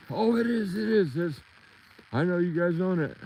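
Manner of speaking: high, insistent quoted woman; young lady voice. Retold or imitated. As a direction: mimic her quick high protest. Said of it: "told the young lady that was asking".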